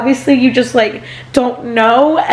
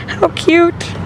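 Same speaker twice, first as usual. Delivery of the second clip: higher, squealy delight; delighted coo; 7 semitones higher than usual. Real, not acted. Admiring the baby's new car seat, a higher delighted coo. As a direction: gush over something adorable.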